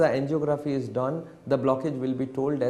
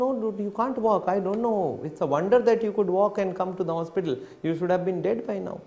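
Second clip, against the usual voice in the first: raised pitch, pressing; insistent doctor; 6 semitones higher than usual. Retold or imitated. Cardiologist pressing the patient that he should be dead. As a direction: keep it up high and urgent.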